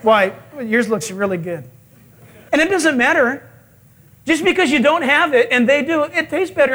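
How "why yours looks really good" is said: low-pitched diner's grumble; mock sulky regret over the order; grumbling. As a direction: grumble enviously under the words. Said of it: "you begin to grumble".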